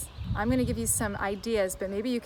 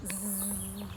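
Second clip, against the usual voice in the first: buzzing bee; 5 semitones lower, 9 dB quieter than usual. Shown as a demonstration. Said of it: "Let's go fast".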